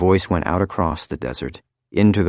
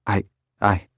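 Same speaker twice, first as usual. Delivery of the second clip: sobbing; 3 semitones higher than usual. A narrator's reading. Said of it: "sobbed Missus Phelps".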